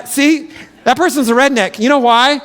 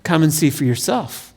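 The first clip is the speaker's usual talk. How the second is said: soft, lower and unhurried; calm invitation; 4 semitones lower, 3 dB quieter than usual. Acted. Philip answers the doubter with a soft, calm invitation. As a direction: offer it gently, no argument. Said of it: "What does he say?".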